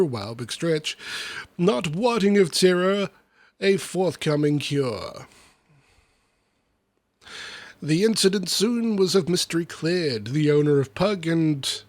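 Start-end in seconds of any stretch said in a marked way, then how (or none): 1.6-11.8 lively, rhythmic storybook reading; verse recitation. Acted. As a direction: read the rhyming tale with bounce. Reads comic verse aloud.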